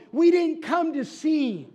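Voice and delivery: high, loud, fed-up yell; angry shout. Acted. An angry bidder shouts at the auctioneer, high and loud. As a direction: demand the famous paintings at full volume. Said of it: "And another shouted".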